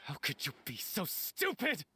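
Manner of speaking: outraged, with the pitch jumping on the sharpest reproaches; worked-up angry accusation. Acted. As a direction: lash out at a traitor in disbelief. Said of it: "try not to get too worked up".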